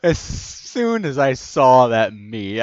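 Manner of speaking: slow laughing words. Real, not acted. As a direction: talk through giggles.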